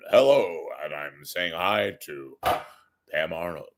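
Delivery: lightly voiced anchorman sign-on; Walter Cronkite. Anchorman speaking from heaven to viewers, newscaster impression. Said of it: "as Walter Cronkite would say".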